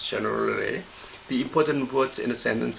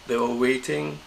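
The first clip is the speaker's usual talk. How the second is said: "They were" at mid pitch, "waiting" raised; mid-to-high pitch. Shown as a demonstration. Teacher showing the pitch pattern to learners, mid to high on "waiting". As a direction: step up onto "waiting". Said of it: "This is mid, and this is high".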